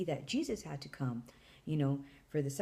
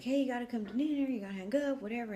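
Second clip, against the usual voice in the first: higher, hurried mock parent call; dad calling; 6 semitones higher, faster than usual. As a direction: imitate a parent nagging to hang up. Dad calling her away from phone.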